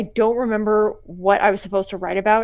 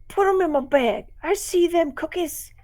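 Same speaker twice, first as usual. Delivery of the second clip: much higher, pushy trick-or-treater; greedy demanding voice; 9 semitones higher than usual. Retold or imitated. A trick-or-treater bossing the homeowner, in a high pushy whine. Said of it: "That's what it really sounded like".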